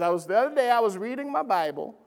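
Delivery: imitating a Scotsman's accent, quickly; amateur Scottish accent, brisk retelling. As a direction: attempt a light Scottish accent. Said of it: "I wish I could do the Scottish accents".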